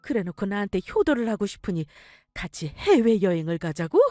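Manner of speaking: mother exposes her son's scheme; mother's furious reproach. Acted. Mother confronts scheming son. (엄마가 분노하며 호통치듯)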